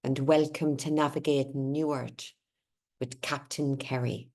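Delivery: lilting Connemara Irish accent. Shown as a demonstration. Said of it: "That's my Connemara accent".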